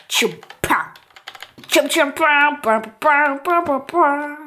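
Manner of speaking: rhythmic chum-pow noises; punchy mouth-made action sounds; playful sound effects. Pretend. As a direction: chant little explosion noises. Imitating noises during play.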